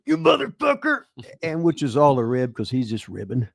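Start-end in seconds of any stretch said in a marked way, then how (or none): 0.0-1.0 high, hammed-up mock wrestler yell; mock Randy raging in character. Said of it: "he was in character".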